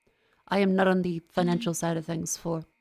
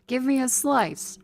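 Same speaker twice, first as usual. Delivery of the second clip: hungry guy voice; slower than usual. Shown as a demonstration. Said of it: "the cadence and the tone".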